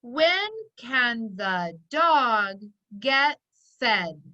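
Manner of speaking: each word said slowly and clearly for spelling; careful dictating voice; slow dictation. Shown as a demonstration. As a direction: read it out slowly, like a spelling test. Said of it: "Remember, the sentence is".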